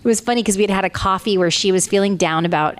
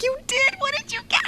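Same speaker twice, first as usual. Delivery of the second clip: eager surprise; 4 dB quieter than usual. Retold or imitated. Friend about to reveal big news.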